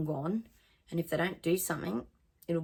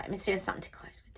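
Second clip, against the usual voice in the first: quick whisper under her breath; whispered aside; 6 dB quieter, much faster than usual. Real, not acted. Psychic whispers to herself while searching for a closing message. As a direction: murmur it fast to yourself.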